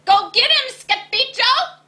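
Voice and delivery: high, loud cheer; cheering cry. A narrator's reading. Puchitos urging Scapito, loud high cheer. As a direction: cheer him on from below. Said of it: "cried the Puchitos".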